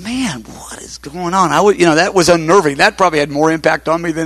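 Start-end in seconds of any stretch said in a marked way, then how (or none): 0.0-1.5 mildly stunned, drawn-out and softer; retold bewilderment, slow with a higher pitch. Shaken by the pastor's words, retelling his stunned reaction.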